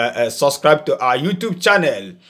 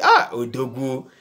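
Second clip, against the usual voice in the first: put-on polite flattering child; 3 semitones lower than usual. Humble son flattering his father before asking, lightly voiced. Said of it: "he will come to you".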